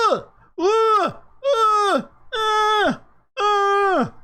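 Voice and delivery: high bleating ah ah ah; bleating cry. Pretend. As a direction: bleat like a goat. Markets going mock panicked cry.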